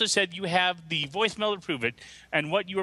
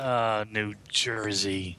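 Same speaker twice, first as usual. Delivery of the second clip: slow, lower New Jersey accent attempt; 7 semitones lower, slower than usual. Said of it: "you can do a New Jersey accent".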